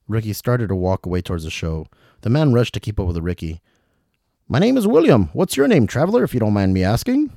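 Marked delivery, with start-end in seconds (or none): 4.5-7.3 put-on dangling old traveler. William calling to Ricky from upside down, high and fussy. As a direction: call down politely from the rope.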